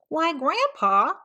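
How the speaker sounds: put-on high, bright kid greeting; cheery greeting. Peter plays along greeting grandpa, bright and high. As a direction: sound delighted to see him.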